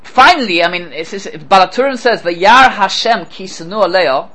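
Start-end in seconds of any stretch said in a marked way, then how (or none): 2.2-4.3 slow, weighty reading of the verse; slow, deliberate citation. Shown as a demonstration. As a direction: lay out each word of "Vayar Hashem ki sanu Leah". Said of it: "Listen to this".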